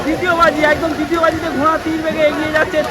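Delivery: urgent live race call, rising at the end; race caller. Real, not acted. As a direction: call the second race as it runs.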